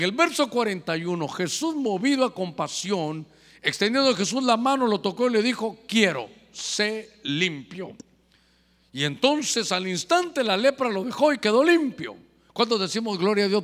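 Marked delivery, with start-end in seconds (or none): 5.9-8.0 slow, gentle words of Jesus. Acted. Preacher voicing Jesus healing the leper, slow and gentle. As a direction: lay each word down slowly, like a healing.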